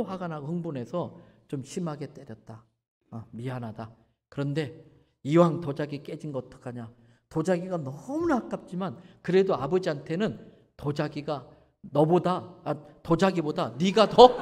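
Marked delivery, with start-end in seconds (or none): 3.1-12.6 tender apology. Retold or imitated. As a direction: tell him gently he matters more. Father apologizing tenderly to son.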